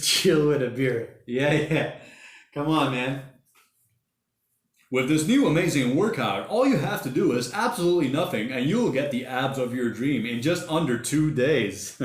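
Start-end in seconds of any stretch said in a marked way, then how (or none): 4.9-12.0 hammed-up TV ad pitch, slowing at the end; mock infomercial announcer selling a lazy workout. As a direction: sell it like a cheesy workout commercial. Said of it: "Do they still make those commercials?".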